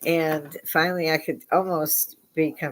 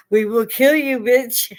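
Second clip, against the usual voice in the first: loud, higher growl of a demon; monster voice; 6 semitones higher, 6 dB louder, slower than usual. Retold or imitated. Her screaming vocal cords voiced as a monster, loud and high. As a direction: let the vocal cords speak like a beast. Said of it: "my vocal cords going".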